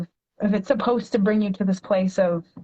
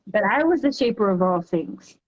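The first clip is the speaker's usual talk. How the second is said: poem reading. Acted. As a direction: read it like a heartfelt poem to a child. Reads her poem aloud.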